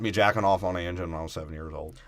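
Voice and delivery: put-on quick Alabama country-boy talk; Bama boy. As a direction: rattle it off as a Southern boy. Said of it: "Bama boy".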